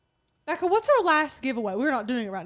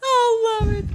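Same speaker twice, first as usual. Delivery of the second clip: laughing loudly; 11 semitones higher, 9 dB louder than usual. Real, not acted. Loofah joke.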